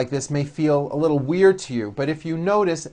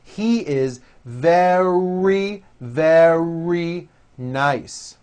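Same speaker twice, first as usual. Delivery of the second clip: very slow, each very with a strong R; slow model sentence; nice and slow; much slower than usual. Shown as a demonstration. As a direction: drag the sentence out for practice. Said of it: "nice and slow".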